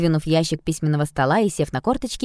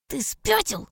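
high outraged squeak; squeaky; 10 semitones higher, 3 dB quieter, slower than usual. Acted. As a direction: squeak it out in shock. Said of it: "пискнул он".

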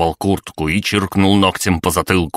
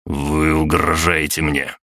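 сквозь зубы; slower than usual. Acted. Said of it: "скрипя зубами, выдавил я".

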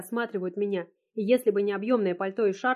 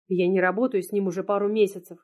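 usual speaking voice

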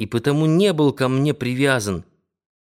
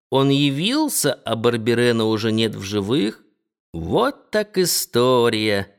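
put-on old landlady marvelling. Old landlady voiced in story.

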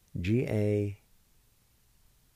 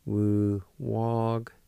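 said slowly, each syllable drawn out; slow demo. Shown as a demonstration. Teacher to students, modelling Wu walked slowly. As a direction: draw out Wu walked for the learner. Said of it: "like this".

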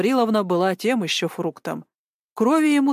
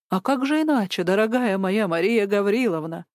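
mock-sweet exclamation. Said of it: "воскликнул он".

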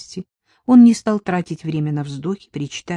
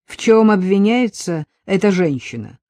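stern; 2 semitones higher, 4 dB louder than usual. Acted. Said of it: "строго спросил он сержанта".

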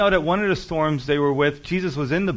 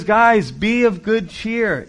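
calm Jesus voice; 6 semitones higher, 6 dB louder, much slower than usual. Acted. Jesus calms frightened disciples.

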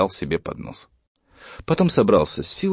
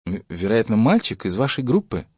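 ordinary delivery

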